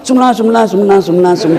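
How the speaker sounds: "sumlah" gabbled fast and repeated; too-fast dhikr. Retold or imitated. Preacher mocks an imam's rushed dhikr, fast mumble. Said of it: "sikirnya terlalu cepat".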